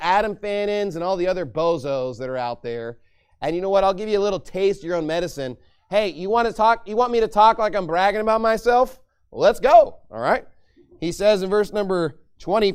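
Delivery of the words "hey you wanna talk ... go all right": boastful. Pretend. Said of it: "I'm about to speak like all these idiots".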